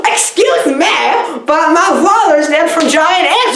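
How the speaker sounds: high put-on child voice; little girl. Little girl at hospital announcing her father's death, high child voice. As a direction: play a hammed-up little girl. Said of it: "the little girl's at the hospital".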